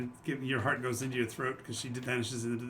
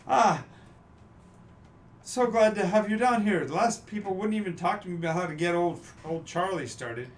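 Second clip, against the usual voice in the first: posh character voice; 5 semitones higher, 4 dB louder than usual. Acted. GM voices NPC Carlton.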